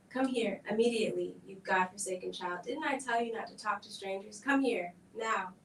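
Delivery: loud scolding shout; angry shouting mother. Acted. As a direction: yell the child back across the hall. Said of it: "the shouting voice of a woman".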